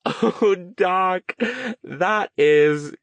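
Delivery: put-on high, gleeful voice of a delighted young woman; excited young woman. A narrator's reading. Verity to Stone, high and gleeful. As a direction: savor each item, thrilled.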